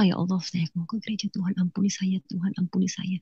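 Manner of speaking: very soft pleading to God; murmured prayer. Retold or imitated. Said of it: "saya sambil berdoa".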